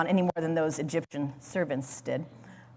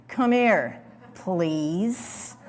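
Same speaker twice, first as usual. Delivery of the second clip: exasperated parent; much slower than usual. Shown as a demonstration. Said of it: "you've said it as a parent".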